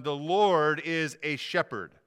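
"Lord" loud and drawn out, "shepherd" also weighted; slow down and lean hard on "Lord"; stress on Lord. Real, not acted. Pastor announcing his first point, heavy stress on "Lord". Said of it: "emphasize the word Lord".

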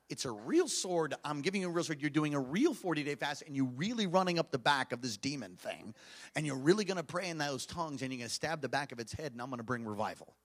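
low, softened voice of God; hushed, low, grave pronouncement; sober divine message. Retold or imitated. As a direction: deliver it quietly, stressing what is real. Voices God's sobering message to him.

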